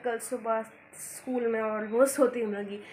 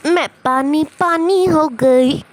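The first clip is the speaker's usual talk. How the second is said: mock mortified cry; 3 semitones higher, 16 dB louder, slower than usual. Real, not acted. Embarrassed after meeting auntie.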